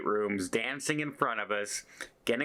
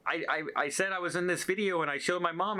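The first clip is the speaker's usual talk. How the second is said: higher, eager retelling of the crew member; excited crew member; 7 semitones higher, faster than usual. Retold or imitated. Crew member gushing to the vlogger, voiced higher. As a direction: play the crew girl, bubbly and eager.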